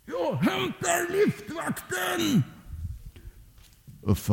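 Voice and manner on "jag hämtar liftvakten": very high, slow, stretched call, held back in volume; calling through a hole. Acted. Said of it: "så ropade han genom hålet". (ljust, långdraget rop genom hålet)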